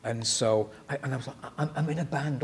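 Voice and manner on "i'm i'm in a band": tripping over the first word; mildly stuttered, halting start; nervous stutter. Retold or imitated. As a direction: stammer it out, imitating your starstruck younger self. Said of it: "all stuttering".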